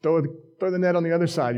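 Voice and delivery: mild acted yell to fishermen; calling out. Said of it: "Jesus yells at 'em".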